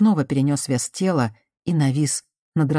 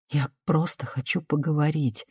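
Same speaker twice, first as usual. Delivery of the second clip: conciliatory; 4 dB quieter than usual. Acted. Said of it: "примирительно сказала она".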